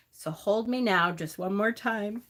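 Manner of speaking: reading a farewell poem, fighting back tears; choked-up memorial poem read aloud; tearful poem reading. Real, not acted. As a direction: read it gently, holding back real tears. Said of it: "I'm just crying 'cause the poem itself".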